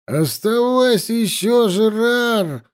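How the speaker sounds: high-pitched call from the tent. A narrator's reading. Drinking companions urging Жерар to stay, calling out. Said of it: "раздался из шатра нестройный гул голосов".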